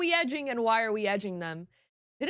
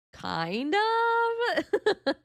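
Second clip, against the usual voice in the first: near tears; 10 semitones higher than usual. Real, not acted. Admitting she is emotional on stream.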